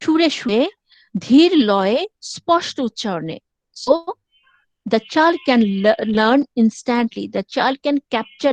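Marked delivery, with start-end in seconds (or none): 0.0-3.4 drawn-out, clear motherese. Shown as a demonstration. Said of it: "টেনে টেনে".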